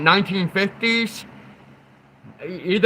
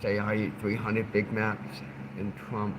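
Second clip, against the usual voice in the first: huge Trump voice; 9 semitones lower, 13 dB quieter than usual. Retold or imitated. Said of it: "Huge voice".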